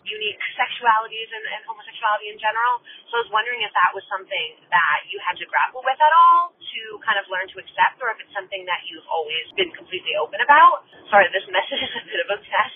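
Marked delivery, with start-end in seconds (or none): 3.1-12.7 stoned. Real, not acted. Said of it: "Sorry, I'm stoned".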